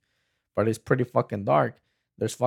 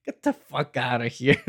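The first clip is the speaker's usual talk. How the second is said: ordinary talk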